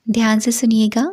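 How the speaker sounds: measured meditation guidance with long pauses; guided meditation. Acted. Teacher guiding listeners into a five senses meditation, measured guided-meditation delivery. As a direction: lead listeners through it unhurriedly, phrase by phrase.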